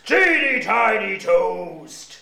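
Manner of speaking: drawn-out slow voice; slow funny voice. Shown as a demonstration. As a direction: stretch it out very slowly. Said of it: "You have to copy that voice".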